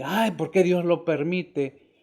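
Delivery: slow, mock-pitiful whine; lightly hammed-up lament; mock whining. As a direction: imitate a complainer feeling sorry for himself. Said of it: "ya estamos llorando".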